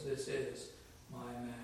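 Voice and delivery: hushed, solemn pronouncement with a pause; dramatic understatement. Retold or imitated. God answering those who challenge Moses, dramatic hushed pronouncement. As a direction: drop the voice for quiet dramatic weight. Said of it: "God, in a very dramatic way".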